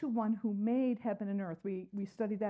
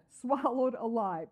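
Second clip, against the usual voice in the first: much louder, slow Swallowed alive; loud emphatic phrase; 2 semitones higher, 9 dB louder, slower than usual. Acted. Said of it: "Help me with that".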